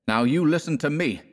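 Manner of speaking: tense, high-pitched threat; muttered through clenched teeth. A narrator's reading. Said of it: "muttered through his clenched teeth".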